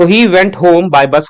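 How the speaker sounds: each word drawn out very slowly; very slow dictation. Shown as a demonstration. Teacher slowly dictating the corrected sentence to students. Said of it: "होगा".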